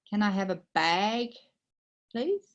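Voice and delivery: patient slow repeat. Retold or imitated. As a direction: spell it out for the clerk who can't understand.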